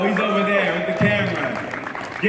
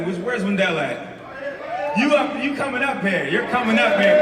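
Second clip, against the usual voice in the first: calling out; 4 semitones higher than usual. Real, not acted. Calling dad up on stage.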